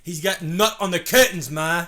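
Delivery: loud, high laughing Boston whine; laughing Boston accent; Boston complaint. Retold or imitated. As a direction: whine to Ma while cracking up. Boston bit.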